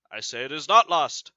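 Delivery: reading Othello's angry command to his wife; furious reading. Acted. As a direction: insist hard, like a furious husband. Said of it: "So he is furious".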